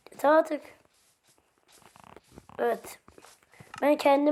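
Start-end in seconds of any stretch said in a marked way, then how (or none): 0.1-0.6 louder, higher exasperated outburst; fed up. Real, not acted. Gamer fed up with the villagers, exasperated louder outburst. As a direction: snap it out in frustration.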